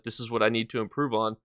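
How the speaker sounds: talking through the hiccups; hiccuping between words. Real, not acted. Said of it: "Excuse me, I got the hiccups".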